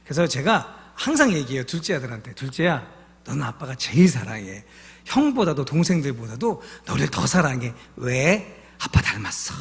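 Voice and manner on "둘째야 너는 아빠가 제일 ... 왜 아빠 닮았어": tender to son. Retold or imitated. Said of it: "막 이렇게 해요".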